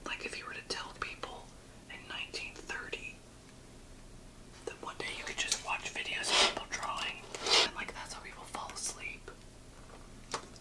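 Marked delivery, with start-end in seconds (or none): 0.1-9.3 soft whispering. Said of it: "are you whispering like I'm not here".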